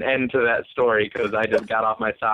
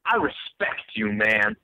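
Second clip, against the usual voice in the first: crazy subway stranger; 8 semitones higher, slower than usual. Retold or imitated. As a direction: imitate an intense, odd subway guy. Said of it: "there will be a crazy person".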